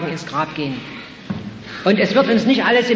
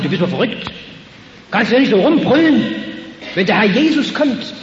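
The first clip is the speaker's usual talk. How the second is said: scolding crowd; 3 semitones higher than usual. Retold or imitated. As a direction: scold him to shut up. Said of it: "stürzen sich auf den Blinden und sagen".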